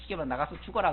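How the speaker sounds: ordinary talk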